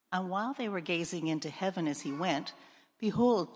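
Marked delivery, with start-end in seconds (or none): 3.0-3.5 a sudden, lifted exclamation; loud emphatic behold. A narrator's reading. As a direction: announce it like a revelation. Climax of the ascension reading.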